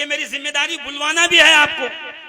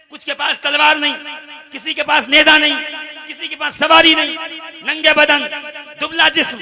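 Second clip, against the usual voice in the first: short declaimed phrases, growing louder; rousing sermon oratory; 7 dB louder than usual. Acted. Preacher describes the poorly armed Muslims at Badr, building declamation. Preacher lists the army's poverty.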